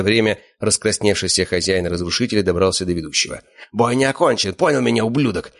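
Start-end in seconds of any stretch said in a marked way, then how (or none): 3.7-5.5 furious shout. Acted. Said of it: "закричал он, брызжа слюной".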